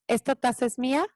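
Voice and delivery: evenly repeated, unruffled refusal; composed parent not getting hooked; calm broken record. Shown as a demonstration. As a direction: repeat it calmly like a scratched record. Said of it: "yo con toda tranquilidad, me convierto en algo que se llama el disco rayado".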